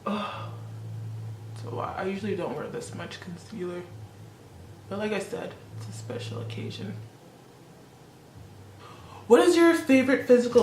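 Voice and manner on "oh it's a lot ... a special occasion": soft, hushed ASMR murmur fading to a whisper. Pretend. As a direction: drop to a gentle ASMR hush for the fans. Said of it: "for my A S M R fans out there".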